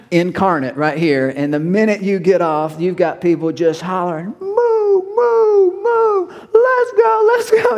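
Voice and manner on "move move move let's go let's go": much higher and louder, barking drill sergeant orders; drill sergeant shouting. Retold or imitated. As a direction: yell like a drill instructor herding recruits. Drill sergeants hollering at recruits.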